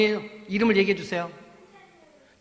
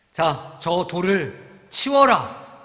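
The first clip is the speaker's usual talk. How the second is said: commanding Jesus; 7 dB louder, much slower than usual. Acted. Jesus commands stone removed.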